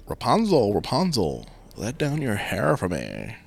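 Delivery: lightly voiced prince calling out. Prince calls up imitating her.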